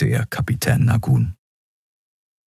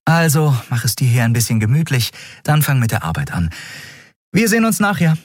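higher-voiced captain giving orders; captain's higher, businesslike voice; 8 semitones higher, faster than usual. A narrator's reading. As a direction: play a practical captain sorting things out. Captain takes leave.

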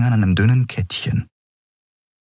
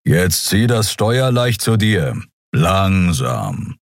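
slow, patient Skrier guidance; slow instructing creature; slower than usual. Acted. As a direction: talk her through it slowly. Kero instructs pilot.

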